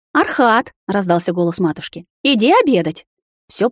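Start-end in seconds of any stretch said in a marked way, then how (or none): 0.1-0.7 higher, louder call. A narrator's reading. Mother calling her husband to lunch, loud. Mother calls across the yard. 2.2-3.1 higher, louder call. A narrator's reading. Mother calling her husband to lunch, loud. Mother calls across the yard.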